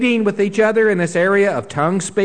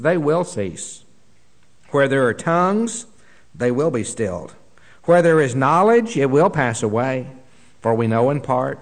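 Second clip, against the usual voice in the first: scripture reading; 3 semitones lower than usual. Acted. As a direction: read the verses with measured solemn weight. Reads scripture passage aloud.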